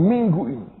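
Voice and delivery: booming voice in the ear at night; retold loud voice. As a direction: announce it like a shouted message. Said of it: "Teriak ngomong begini".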